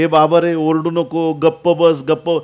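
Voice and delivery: a touch of stern reprimand; mild acted scolding. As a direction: scold him lightly to shut him up. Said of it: "शिष्य त्याला दटावत होते".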